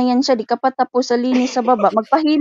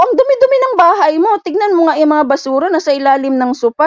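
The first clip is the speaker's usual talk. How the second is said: loud, high reproach; retold scolding; 4 semitones higher, 4 dB louder than usual. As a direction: scold her about the filthy house. Maid scolding employer about mess.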